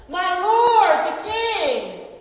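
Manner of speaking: loud, high call after the departing king; shouting after him. Acted. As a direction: call out across the distance to the king. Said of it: "shouted after him".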